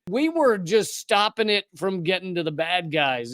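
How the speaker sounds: mock Southern military excuse; Southern accent. Mocking the soldiers' excuse as U.S. military, light Southern accent. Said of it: "I'm gonna do a Southern accent".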